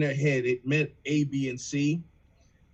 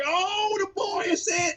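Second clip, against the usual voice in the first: much higher, stretched "oh" in awe; amazed realization. Retold or imitated. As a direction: act floored by the wordplay. Amazed listener hears the line.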